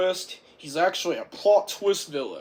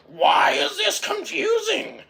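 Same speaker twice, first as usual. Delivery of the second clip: high, loud, offended outburst; indignant yell; 10 semitones higher, 5 dB louder than usual. Retold or imitated. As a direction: shout back, insulted. Chet indignant at girl question.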